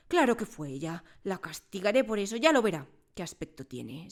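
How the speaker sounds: loud, domineering schoolmistress voice; bullying headmistress ranting; booming headmistress. Acted. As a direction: play the tyrant headmistress holding court.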